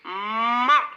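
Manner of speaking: long hummed m gliding into "ma"; teacher stretching the m in "ma" for repeating; sounded-out syllable. Shown as a demonstration. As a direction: hold the first sound of "ma", mmm-a. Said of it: "Répétez après moi".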